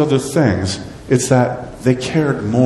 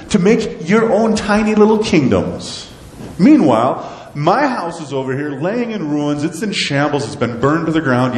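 higher, stretched reproach; mildly stern divine scolding; God's rebuke; 5 semitones higher than usual. Acted. God rebukes the people for neglecting his house, stern.

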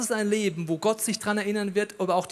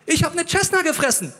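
high, loud chirpy man voice; high eager voice; 9 semitones higher, 4 dB louder than usual. Acted. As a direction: answer God brightly, pitched up. Man answers God in dialogue.

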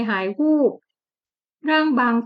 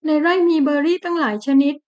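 wheedling wife; 5 semitones higher than usual. Acted. Wife coaxing husband.

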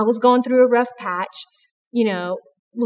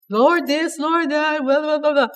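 self-pitying moan, pitched up; whiny complaining prayer; 4 semitones higher than usual. Retold or imitated. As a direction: whine to God like nobody understands you. Mock rerun of the complaint.

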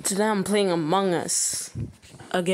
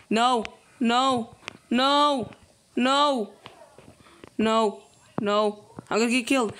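anguished denial. Real, not acted. Begging not to be killed.

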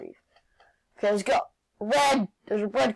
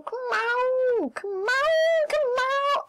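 urging that climbs to a high squeal; frantic urging; 13 semitones higher, much slower than usual. Real, not acted. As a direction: start normal, then plead higher and higher. Urging himself through a tricky jump.

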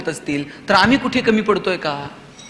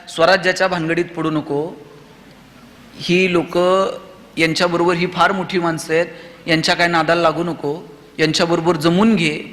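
cautious mother; 5 semitones lower than usual. Acted. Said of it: "Jijau Shivaji राजांना म्हणल्या असत्या".

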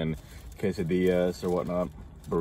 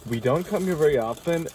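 higher, teasing repeat of her line; mock echo; 7 semitones higher than usual. Repeats partner's line mockingly.

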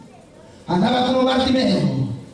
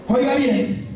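ordinary talk

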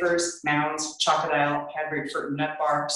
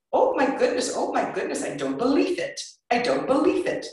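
put-on high, accented disbelieving delight; thrilled clerk; 10 semitones higher than usual. Clerk learning she's the painter's daughter, thrilled. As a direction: gush like a starstruck fan.

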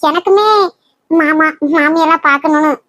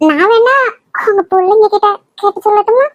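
playful teasing; 2 semitones higher than usual. Acted. Wife teasing back mimicking him.

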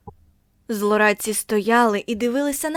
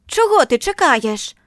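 slow, loud, higher bullying order; angry shout; 4 semitones higher, 7 dB louder than usual. A narrator's reading. Bully driving Margo off, loud slow shout. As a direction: bark her away. Boy shoves her again.

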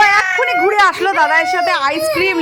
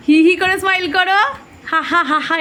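demo laugh. Shown as a demonstration. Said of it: "এরম করে করো স্মাইলটা".

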